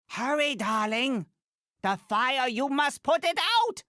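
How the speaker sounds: high urgent cry to put out the fire; urgent call. Acted. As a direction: push the hero on, alarmed. Urging hero during a fire.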